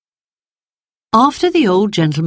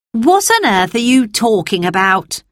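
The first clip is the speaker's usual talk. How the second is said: puzzled; 5 semitones higher than usual. Acted. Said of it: "asked Peter".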